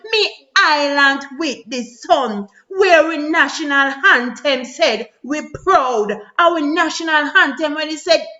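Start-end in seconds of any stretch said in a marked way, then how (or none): 0.1-6.1 slow, tearful; crying. Real, not acted. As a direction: let the tears slow the words. Lamenting his island.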